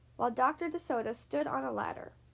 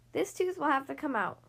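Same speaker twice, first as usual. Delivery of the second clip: raised-pitch, mild pronouncement; announced; 4 semitones higher than usual. A narrator's reading. Dentist to his patient, mild announcement. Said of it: "Doctor DeSoto announced".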